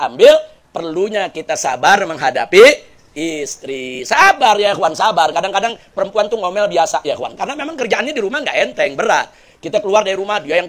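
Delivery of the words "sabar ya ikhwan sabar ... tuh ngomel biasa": normal talking voice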